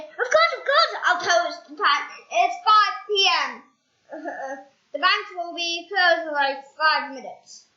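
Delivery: high, loud eager answer; small eager voice. Acted. Shrunken Mister Appleseed telling a man the time. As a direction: answer brightly in a tiny voice.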